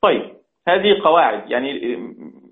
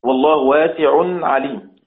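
والله واسع عليم recited in tajwid style; recited example verse; Quranic recitation. Shown as a demonstration. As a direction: chant the verse clearly. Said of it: "لما أقول مثلًا".

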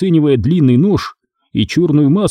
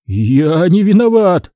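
slowed, hoarse cry of real terror; rasping terror; 6 semitones higher, 3 dB louder, slower than usual. Acted. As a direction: wheeze it out in horror. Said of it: "прохрипел он с неподдельным ужасом". (хрипит в неподдельном ужасе)

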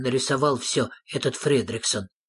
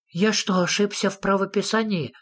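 tag; 6 semitones higher than usual. A narrator's reading. Anxious nephew asks about spelling.

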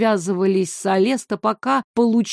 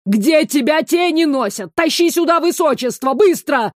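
higher, louder hurried yell; yelling on the phone; 6 semitones higher, 4 dB louder than usual. A narrator's reading. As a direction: shout down the line for him to hurry. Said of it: "заорала трубка".

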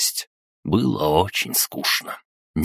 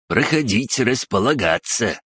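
cheerful drawling crab creature; high, welcoming little crab voice; snappy clicking crab; 6 semitones higher than usual. A narrator's reading. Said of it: "радушно протянул Крабогном". (радушный протяжный голос краба)

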